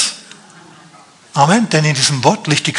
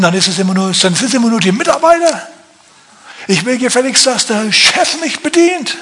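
whiny churchgoer; 4 semitones higher than usual. Pretend. Mocked churchgoer complaining.

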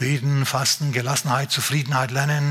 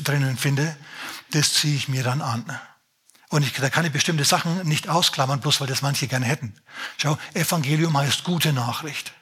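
usual speaking voice

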